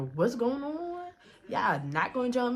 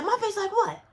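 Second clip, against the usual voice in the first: laughing retort; 10 semitones higher than usual. Retold or imitated. She answers while laughing.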